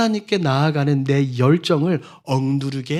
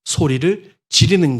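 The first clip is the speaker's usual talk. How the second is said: loud, slow and higher, throwing everything in; straining cry; 7 semitones higher, 7 dB louder, slower than usual. Shown as a demonstration. Preacher acting out Bartimaeus's all-out cry, straining shout. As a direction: shout as if giving your all. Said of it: "악을 쓴다고 말하죠".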